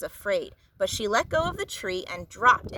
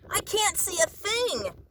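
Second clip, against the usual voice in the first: yelled; 10 semitones higher than usual. A narrator's reading. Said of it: "yelled Pip".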